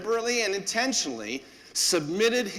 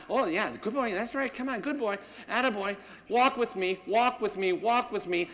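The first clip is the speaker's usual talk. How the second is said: puppy praise; 4 semitones higher than usual. Retold or imitated.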